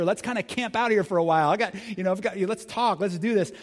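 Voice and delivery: high, tripping over words, modern-slang ramble; a starstruck fan scrambling to save the moment; giddy, flustered rambling; flustered Peter. Acted. Preacher voices Peter's rambling excitement.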